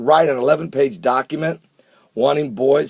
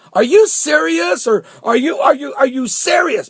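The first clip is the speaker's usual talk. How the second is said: much higher, louder disbelieving cry; mock outrage; 12 semitones higher, 4 dB louder than usual. Vlogger hamming up viewers' disbelief, high loud squeal.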